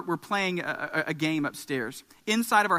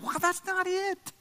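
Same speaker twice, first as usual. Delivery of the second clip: mock dismissal; 11 semitones higher, 3 dB quieter, slower than usual. Acting out how Christians look.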